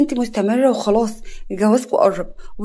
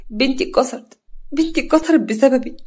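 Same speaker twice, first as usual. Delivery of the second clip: tearful; 4 semitones higher than usual. Acted. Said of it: "نجوى بدموع كسرة".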